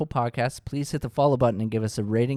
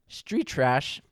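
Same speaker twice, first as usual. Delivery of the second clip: voice cracking; 3 semitones higher than usual. Real, not acted. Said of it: "My voice cracked".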